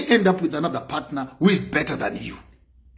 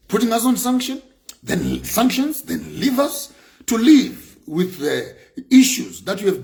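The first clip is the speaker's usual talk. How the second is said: outraged protest; 4 semitones higher than usual. Real, not acted. Outraged at sanctions.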